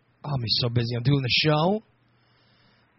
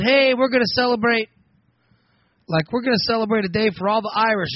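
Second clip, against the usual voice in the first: higher-pitched eager announcer of plans; announcing a celebration; 5 semitones higher than usual. Acted. Proposing a holiday to everybody, excited announcement. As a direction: pitch it up, pitching a party idea.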